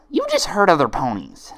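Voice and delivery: high loud hammered accusation; high furious friend; loud accusing friend. Acted. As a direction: hurl it at her. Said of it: "Each friend repeated one of her twin's lines".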